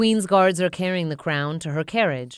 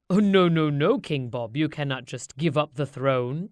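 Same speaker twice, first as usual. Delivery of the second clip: advisor objecting. Acted.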